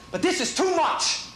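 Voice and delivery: high, frantic, whiny rant; trembling whiny yelps. Real, not acted. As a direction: plead like you're scared to die.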